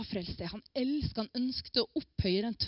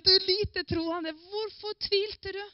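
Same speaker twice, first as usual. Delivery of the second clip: higher, slow reproachful question; slow rebuke; 9 semitones higher, 3 dB louder, slower than usual. Retold or imitated. Quoting Jesus to the congregation: slow rebuke. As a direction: lean on tvilte, drawn out. Preacher quotes Jesus again.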